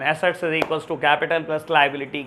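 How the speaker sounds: slow, word-by-word formula read so students can copy it; slow dictation. Shown as a demonstration. Teacher slowly dictating the formula to students for their notes. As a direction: spell the formula out slowly for the class.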